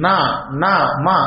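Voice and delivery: నా and మా voiced through the nose; isolated, held నా and మా with nasal onsets; nasal sounds. Shown as a demonstration. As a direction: demonstrate each nasal syllable separately, నా then మా. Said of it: "ఇవన్నీ కూడా నాసికతో".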